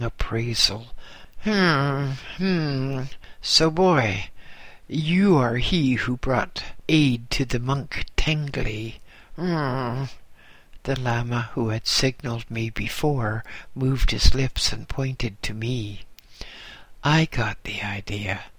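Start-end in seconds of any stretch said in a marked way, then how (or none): 1.4-10.0 lightly voiced old abbot, appraising; a hint of a slow, measuring old abbot; Lord Abbot. Lord Abbot sizing up the boy, lightly voiced. 17.0-18.4 unvoiced, secretive whisper. Boy silently answering the signalling Lama, whispered.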